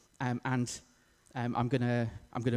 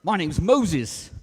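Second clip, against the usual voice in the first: loud, slow, higher parrot reply; parrot character; 5 semitones higher, 7 dB louder, much slower than usual. Acted. Parrot tells the burglar its name, loud and drawn out. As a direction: draw it out proudly as the parrot. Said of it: "And the parrot says".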